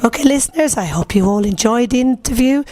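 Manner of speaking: hoarse, croaky sign-off. Real, not acted. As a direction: speak through a croaky throat. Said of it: "in spite of my croaky voice".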